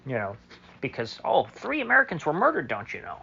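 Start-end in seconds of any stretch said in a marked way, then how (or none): 1.2-3.2 sarcastic, pitched-up mock dismay; mock outrage. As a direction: parody the officials' fake outrage. Mocking the official outrage.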